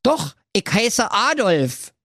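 slow, high put-on servant voice; sheepish servant. Servant confessing his first name, slow and sheepish. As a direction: admit it reluctantly.

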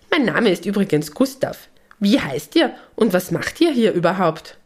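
cheerful imp who got himself stuck; little gnome, pleading. Acted. Gnome stuck in the statue begs Lisabella and the animals to help.

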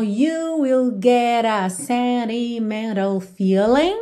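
lyric read slowly and carefully, voices stretched. Shown as a demonstration. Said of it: "Então".

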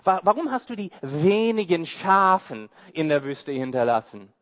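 scornful question through a laugh; older brother scoffing at David with a laugh; mocking laugh. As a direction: laugh him off as a nobody. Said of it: "Man hört den Spott in seiner Stimme".

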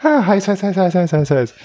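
hopping on hot sand, high and squealy; walking on hot sand. Pretend. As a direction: yelp as if the ground burns. Joking about friction and heat.

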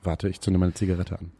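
talking while lighting a cigarette; words round a cigarette. Real, not acted. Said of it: "zündet sich jetzt eine Zigarette an".

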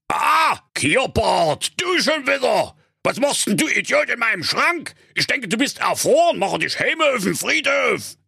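high, indignant character voice; high-pitched grouchy outburst; irritated old miser. A narrator's reading. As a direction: scold an unwelcome visitor.

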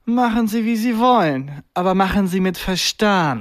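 slow, menacing examiner voice; mock Bond villain. Imitating the stern examiner as a Bond villain. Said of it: "redet wie ein Bond-Bösewicht".

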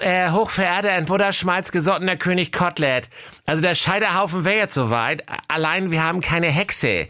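gently objecting, a bit precious; timid executioner. Acted.

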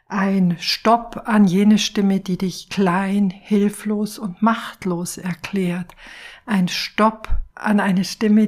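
slow, weighty, with strong stress on Stopp; slow guided affirmation; emphatic meditation. Acted. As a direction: set a clear boundary, slowly.

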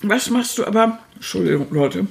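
talking with a mouthful; words round a bite of pastry; chewing while talking. Real, not acted. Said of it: "ich esse gerade an einer Apfeltasche".

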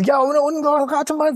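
retold playful "guess what" in a put-on voice; teasing taxi driver. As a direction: stretch it out like a smug quiz. Taxi driver teases with riddle.

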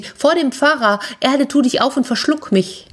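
high-pitched embarrassed plea; acted embarrassment, pitched high; mortified cry. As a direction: beg to vanish from shame. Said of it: "rief sie".

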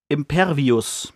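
drawn-out, slow spell incantation; casting a spell. Retold or imitated. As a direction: intone the spell word Impervius slowly. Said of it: "und sagt".

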